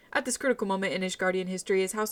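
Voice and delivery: lightly voiced scheming inquisitor; sway the lord against the strangers; inquisitor's speech. Inquisitor lecturing the lord about the intruders, lightly sly.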